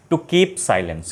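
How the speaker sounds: each word of "To keep silence" drawn out slowly, with the weight on "keep"; slow dictation. Shown as a demonstration. Teacher reads out the right answer slowly for students to note. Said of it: "क्या होगा?".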